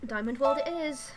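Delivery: whisper. Pretend. Whispered decision.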